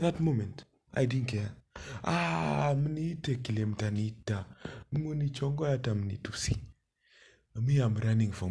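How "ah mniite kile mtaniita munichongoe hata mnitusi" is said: high defiant dismissal. Retold or imitated. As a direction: toss it off defiantly. Defiant retold inner voice.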